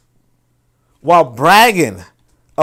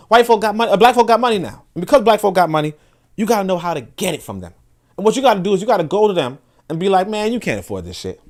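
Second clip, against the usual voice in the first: white voice; 3 semitones higher, faster than usual. Retold or imitated. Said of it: "put in my little white voice".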